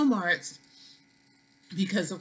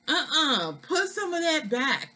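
put-on New York accent; 7 semitones higher than usual. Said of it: "that's my New York accent coming out".

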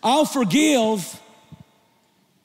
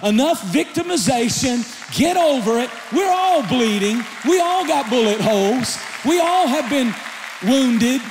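preaching. Real, not acted. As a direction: push the crowd hard. Preaching builds to full force.

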